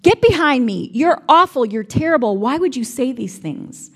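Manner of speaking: mildly angry rebuke, not a full shout; angry reading. Shown as a demonstration. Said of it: "I've often read it as him being angry".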